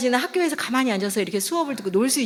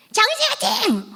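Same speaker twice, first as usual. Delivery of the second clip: cheering shout; 12 semitones higher than usual. Retold or imitated. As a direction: yell his name from the stands. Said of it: "제 목소리가 제일 큰 거예요". (관중석에서 아들 이름을 외치는 큰 응원)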